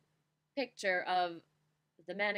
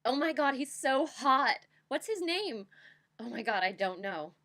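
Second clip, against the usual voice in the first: loud, high swooning fangirl; fangirl squeal; 5 semitones higher, 8 dB louder than usual. Acted. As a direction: gush over the hot guitarist. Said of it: "the poem acts out a fangirl moment".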